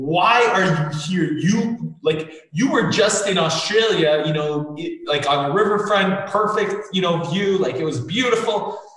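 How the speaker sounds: mild screaming inner voice. Retelling the ego's inner voice after waking in the jungle: imitating ego screaming. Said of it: "screaming, like".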